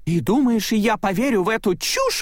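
высоко и язвительно, с недоверием; съязви сердито; злость Селии. A narrator's reading. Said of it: "разозлилась Селия". (Селия сердито не верит Майку, высоко и язвительно)

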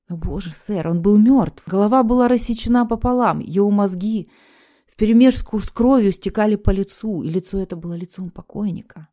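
loud, panicked telling; terrified. Acted. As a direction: blurt it out in terror. Griswell tells of the horror.

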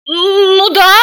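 grudging admission; reluctant. A narrator's reading. Serafima grudgingly confirming to everyone, reluctant. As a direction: admit it reluctantly. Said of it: "неохотно проговорила она".

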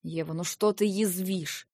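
slow, tired reproach; wearily. Acted. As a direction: sigh it out, worn down. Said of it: "устало вздохнул брат". (устало и медленно)

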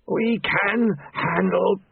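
high, very slow, breaking protest; protesting Famine. A narrator's reading. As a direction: plead it slowly, voice cracking.

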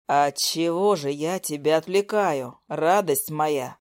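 low, slow growling man; low impatient growl at the girlfriend on speakerphone. Acted. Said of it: "Нетерпеливо прорычал Лёша".

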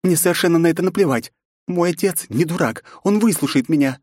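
put-on fierce young princess, rising; defiant young woman. A narrator's reading. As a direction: spit out her anger at the intruder. Nastya defends her family.

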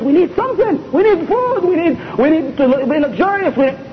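demanding wife. Retold or imitated. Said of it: "One time his wife said".

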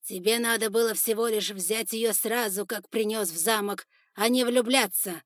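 loud harsh reproach; angry reproach. Acted. Father reproaching his son, loud and harsh. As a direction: throw it at the son.

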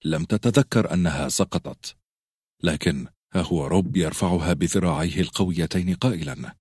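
ordinary delivery, nothing marked

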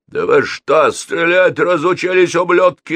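high, loud angry shouting; furious roar. A narrator's reading. Gang leader berating his missing shooters, roaring. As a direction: roar at incompetent men. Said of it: "взревел Папст".

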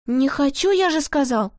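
voice breaking into a shout. Acted. Pavlik, pestered by jesters, voice cracking into a shout. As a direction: let the voice crack into a cry. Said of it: "Голос Павлика сорвался на крик".

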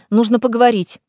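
demanding. Acted. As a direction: insist on it. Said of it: "потребовала Лиза".

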